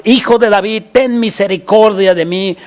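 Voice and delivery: mildly acted cry for mercy. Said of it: "clamaba mucho más".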